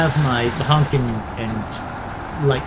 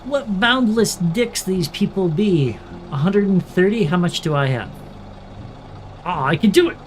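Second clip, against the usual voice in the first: silly clown; 5 semitones higher than usual. Pretend. Mock pirate-like insult.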